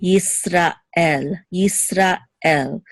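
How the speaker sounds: Yisrael broken into "Yisra" and "El"; two separate words. Shown as a demonstration. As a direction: pause before the "el" of Yisrael. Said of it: "as if it's two separate words".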